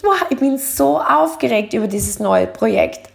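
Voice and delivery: upbeat, eager; bright excited take; excited version. Shown as a demonstration. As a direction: sound thrilled about the project. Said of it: "Aber wenn du sagst".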